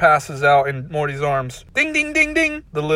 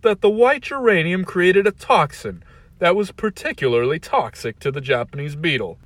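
villain monologue; 4 semitones higher, 4 dB louder than usual. Acted. Villain explains his plan.

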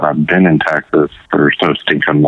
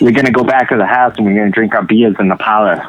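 put-on Boston accent; 3 semitones higher, faster than usual. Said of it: "It's wicked".

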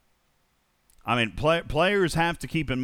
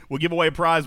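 ordinary talk

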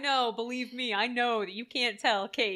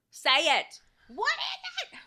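louder then high, slow pleading; mock urgent demand; 11 semitones higher, 6 dB louder, much slower than usual. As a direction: press for the answer, mock urgent. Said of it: "You're like".

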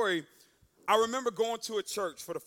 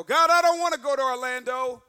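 whining protest; 7 dB louder than usual. Retold or imitated. Man protesting to God in his condo, loud whining. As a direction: complain loudly upward.

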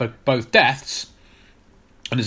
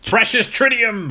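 higher, hammed-up gloating over the precious tritium; mock precious voice; 9 semitones higher than usual. Cohost mock-gloats over the villain's precious tritium, hammed-up. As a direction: croon it like a treasure you covet. Mock-dramatic take on the element.

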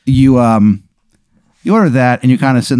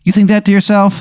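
incredulous; 10 semitones higher than usual. Acted. GM teasing player's thought.

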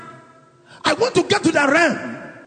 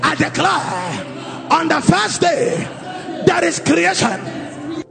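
fervent declaration prayer. Acted. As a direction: declare it over them with full force. Leads congregation in declaration prayer.

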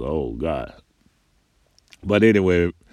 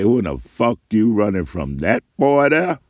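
rising, louder angry challenge; father barking at the son who ran; dad's angry demand; 5 semitones higher, 5 dB louder than usual. Retold or imitated. Dad confronts fleeing son.

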